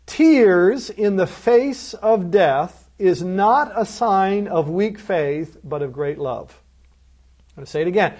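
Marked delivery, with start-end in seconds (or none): 0.0-6.6 measured and weighty, with a hushed close; solemn emphasis. Real, not acted. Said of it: "I believe it's very important".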